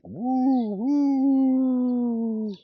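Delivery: high, playful bee whoop; excited bees. Retold or imitated. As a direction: whoop like a swarm taking off. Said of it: "They were like".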